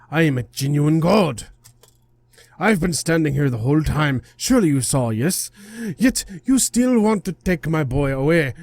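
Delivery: scolding, affronted deity voice; indignant guardian god. Acted. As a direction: berate an intruder like an offended god. God rebukes the spirit.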